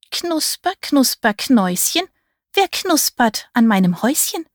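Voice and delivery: put-on high, rusty old witch. A narrator's reading. Old witch asks who is nibbling her house, rusty voice. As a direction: croon it like a rusty old fairy-tale witch. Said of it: "Die Stimme klang rostig".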